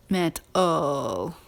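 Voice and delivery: metal with a weak schwa in the last syllable; metal, let the ending go to uh. Shown as a demonstration. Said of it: "You hear the uh in there".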